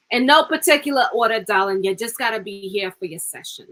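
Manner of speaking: lightly New Jersey, half on purpose; slight New Jersey accent. Real, not acted. Reader slipping into a New Jersey accent with a viewer. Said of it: "I went slightly New Jersey".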